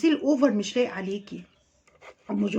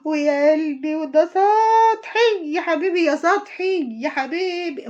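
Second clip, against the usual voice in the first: mock crying; 4 semitones higher, 4 dB louder, slower than usual. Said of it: "وبتعيط".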